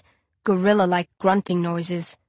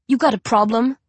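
snarl; 3 semitones higher than usual. Acted. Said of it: "I snarl".

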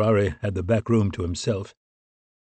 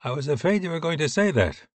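higher-pitched, lightly played British voice; British accent; 7 semitones higher than usual. A narrator's reading. British officer answering his colleague's late call, in a British accent. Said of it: "pronounced British accent".

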